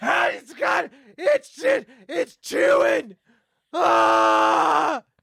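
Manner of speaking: very high, slow, drawn-out shrieking panicked scream. Acting out a caller to an animal testing lab: screaming in panic. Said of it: "You keep screaming like that".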